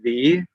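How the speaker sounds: "V" with a long voiced buzz first; voiced V sound. Shown as a demonstration. Teacher explaining voiced sounds, long buzzing V. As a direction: push voiced air through the lip into "V". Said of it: "it's something we call voiced".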